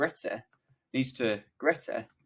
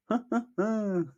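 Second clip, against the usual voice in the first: acted laugh; 11 semitones higher than usual. Jimmy's laugh in the script.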